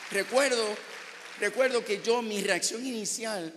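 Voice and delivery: high, loud cry of disbelief; overwhelmed outcry. Real, not acted. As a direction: cry out, unable to believe it.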